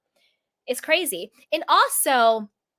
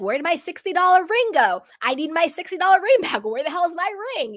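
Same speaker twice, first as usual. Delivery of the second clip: mock upset rant; 5 semitones higher than usual. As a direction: play up a silly panic about a cheap ring. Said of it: "I'd be like".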